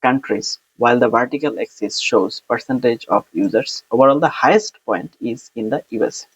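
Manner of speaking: slow, careful exam-answer reading; measured read-aloud of a sample answer; model answer read aloud. Shown as a demonstration.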